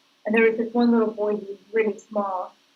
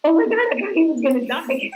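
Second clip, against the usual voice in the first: higher, fast half-sobbing rush of relief; retold bawling; 8 semitones higher, faster than usual. Retelling her on-set breakdown to the interviewer, mock sobbing. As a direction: replay the panicked blubber, pitched up and hurried. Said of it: "I started bawling".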